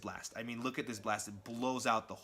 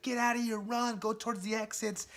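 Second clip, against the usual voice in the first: urgent mock shout; 11 semitones higher than usual. Ben Urich to panicking crowd at the bomb, acted urgent shout. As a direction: shout an evacuation warning in a raised pitch.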